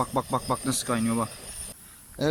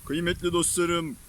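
solemn speech. Acted. Solemn vlog greeting to viewers.

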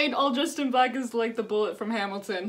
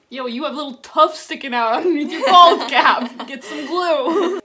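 laughing; 6 dB louder than usual. Real, not acted. Laughing at costume flaws.

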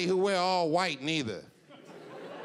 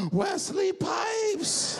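high, drawn-out excited cry of his name; gasping fan scream of the name; starstruck shout; much slower than usual. Retold or imitated. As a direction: yell the name like you just spotted a celebrity. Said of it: "and I looked, and I was like".

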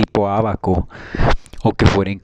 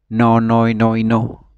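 firm denial; 3 dB louder, slower than usual. Retold or imitated. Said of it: "yo empecé diciendo".

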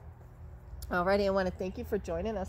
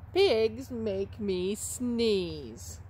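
title read; 4 dB louder, much slower than usual. Acted. Reads the book title.

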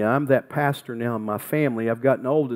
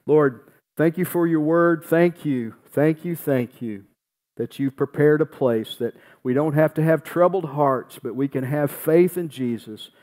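prayer; 2 semitones higher than usual. Acted. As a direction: pray it over the congregation with conviction. Leads closing prayer.

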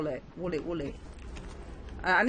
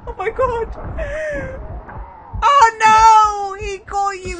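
high shriek with laughter; laughing shriek; 11 semitones higher, 4 dB louder than usual. Real, not acted. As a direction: squeal with laughing panic. Teammate hit, shrieking.

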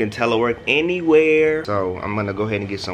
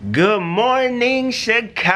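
sing-song greeting; 13 semitones higher, 5 dB louder, slower than usual. Real, not acted. Greeting the city.

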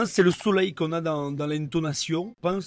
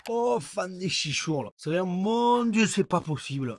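mock astonishment. Shown as a demonstration. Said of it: "en Provence, tu dis".

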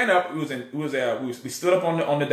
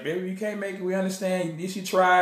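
gentle mom voice; 3 semitones higher, 4 dB quieter than usual. Retold or imitated. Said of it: "being a typical mom".

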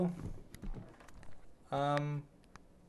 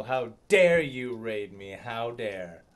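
a playful, slowed, louder how dare you; mock outrage; 6 dB louder, slower than usual. Streamer mock-scolding raiders, hammed-up outrage. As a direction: pretend to be offended, grinning.

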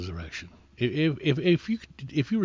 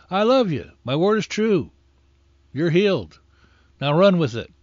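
voice of God; 6 semitones higher, 4 dB louder than usual. Retold or imitated. God's voice quoted in sermon.

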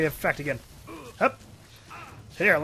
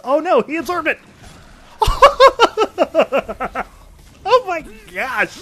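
loud, high, laughing exclaim; laughing disbelief; 10 semitones higher, 10 dB louder than usual. Real, not acted. Player laughing at the boss absorbing it, loud and high.

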